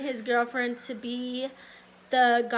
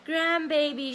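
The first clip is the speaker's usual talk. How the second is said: squealing high with delight, quicker in the middle; excited mom; 9 semitones higher, 4 dB louder than usual. Retold or imitated. Mom seeing her grandbaby's ultrasound, squealing with excitement. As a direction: imitate mom thrilled at the ultrasound picture. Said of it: "She was excited".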